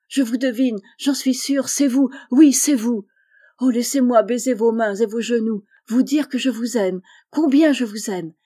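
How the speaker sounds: fervent outcry. Acted. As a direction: pour out thanks in a rush of joy. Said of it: "s'écria".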